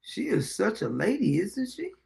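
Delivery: soft, dry sarcasm; quietly mocking the woman's manners; sarcastic hush. Real, not acted. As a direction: drop the voice, mock praise.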